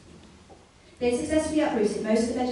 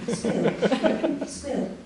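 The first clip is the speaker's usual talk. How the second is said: laughing. Real, not acted. Narrator cracks up.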